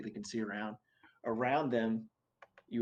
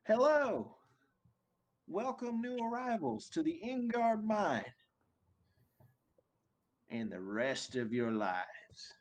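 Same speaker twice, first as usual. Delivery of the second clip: much higher, booming overseer announcement; big booming voice; 9 semitones higher than usual. Acted. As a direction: boom it out like a smug overlord. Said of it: "big booming voice".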